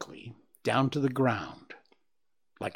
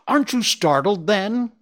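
raised, pushed-up displeased question; discontented asking; 10 semitones higher, 7 dB louder than usual. A narrator's reading. Owl asking Bambi why he isn't scared, discontented. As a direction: ask it as if miffed he failed to scare. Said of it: "he asked discontentedly".

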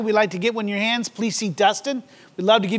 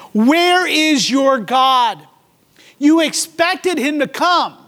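mocking taunt; 4 semitones higher, slower than usual. Voicing the scoffers' taunt.

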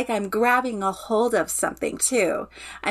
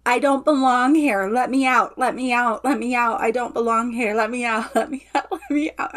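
loud cry to be let out; 4 dB louder than usual. Real, not acted. Client releasing childhood anger in a therapy session, shouting loudly. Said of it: "you can say that as well again".

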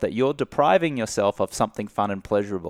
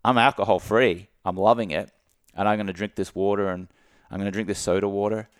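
confident and light; faster than usual. Shown as a demonstration. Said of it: "It's like".

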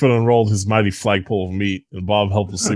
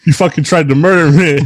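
loud, high enraged yell; roaring monster; 8 semitones higher, 9 dB louder than usual. Acted. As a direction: scream it like a furious beast. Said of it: "it roared".

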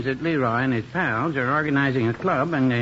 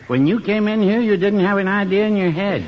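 raised, heated comeback; louder, higher indignant rebuttal; angry retort; 8 semitones higher, 4 dB louder than usual. Acted. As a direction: snap back hotly at him. Heated quarrel over credit.

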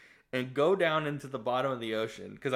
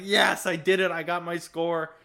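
imitated gloating, louder and higher; excited boast; 5 semitones higher, 5 dB louder than usual. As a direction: crow over the win as the character. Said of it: "he's, like, all excited".

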